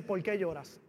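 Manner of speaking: low, softened divine question; imitated hushed voice of God; gentle voice of God. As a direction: ask softly, like a quiet voice from heaven. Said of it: "oigo el susurro de la voz de Dios".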